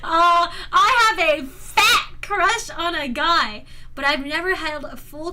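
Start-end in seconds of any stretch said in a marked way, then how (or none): 0.0-3.6 slow. Real, not acted. Reading a question.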